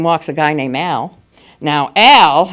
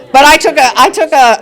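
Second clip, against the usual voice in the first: emphatic; 9 semitones higher, 8 dB louder than usual. Real, not acted. Emphatic restart.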